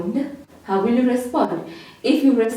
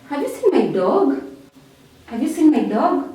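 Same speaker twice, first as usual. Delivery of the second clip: higher-pitched question, stressed "seen", lifting on "dog"; rising question; 4 semitones higher than usual. Shown as a demonstration. Someone asks if you've seen their dog, rising intonation. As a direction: ask it with "dog" turning upward. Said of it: "So where do we use rising intonation?".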